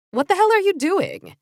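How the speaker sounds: high, loud startled cry; shocked outburst. A narrator's reading. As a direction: blurt it out in shock. Beatrice shocked at dress.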